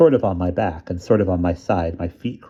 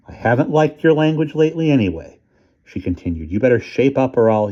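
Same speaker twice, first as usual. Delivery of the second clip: higher, louder scolding mother; barking mom; 5 semitones higher, 3 dB louder than usual. Acted. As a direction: lecture him sharply. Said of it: "stopped barking at me".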